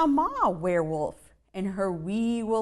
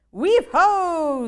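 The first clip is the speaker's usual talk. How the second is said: high, louder little voices; little spiders; 9 semitones higher, 8 dB louder than usual. Acted. Ten wee spiders answer their mom, high and loud. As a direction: sing out like tiny spiders. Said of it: "said the ten".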